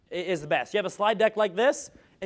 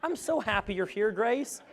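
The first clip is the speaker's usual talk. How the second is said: softer, detached nicety with eyes elsewhere; disconnected greeting; 6 dB quieter than usual. Shown as a demonstration. Presenter showing a distracted hello to Grace, softly detached. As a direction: say it like you're not really there. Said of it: "how connected was I to you? Like zero".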